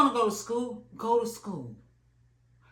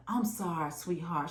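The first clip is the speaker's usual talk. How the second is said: sweet comfort; 5 dB quieter than usual. Retold or imitated. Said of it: "She was real sweet".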